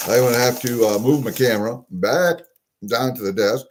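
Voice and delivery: talking while chewing gum; words round a wad of gum. Real, not acted. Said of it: "'cause I'm chewing gum".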